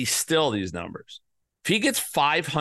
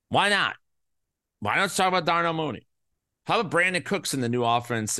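exasperated rant. Real, not acted. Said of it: "that infuriates me".

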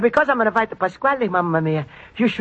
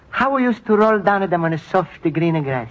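wistful; 4 semitones lower than usual. Acted. Homesick reminiscence over old photographs.

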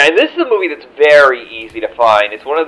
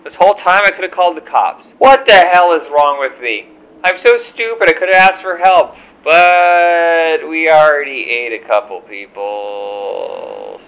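high hammed-up realization; mock panic; 4 semitones higher than usual. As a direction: play up a stranded climber's dawning panic. Mock stranded-climber panic bit.

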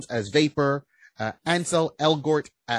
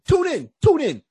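high, louder hype call; excited; 14 semitones higher, 6 dB louder than usual. Real, not acted. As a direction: hype the listeners up. Hyping listeners at episode end.

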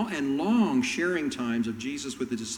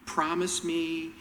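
slow, coaxing plea; pleading mother; slower than usual. Retold or imitated. Mother pressing Jesus for her sons, slow and coaxing. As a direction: draw the favour out slowly, wheedling. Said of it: "takes Jesus aside and he says".

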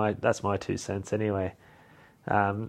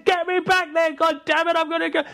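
high, louder hammed-up yell; mock shout; 4 dB louder than usual. Groom yelling at his driver to turn around, hammed-up high shout. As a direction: bellow the order way up high. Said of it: "He says".

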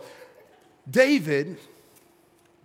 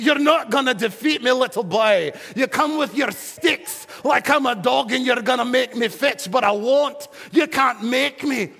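Goliath taunting; 3 semitones higher than usual. Acted.

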